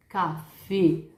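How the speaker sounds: café with a closed e; closed Spanish e. Shown as a demonstration. Teacher repeats Spanish café. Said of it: "La E".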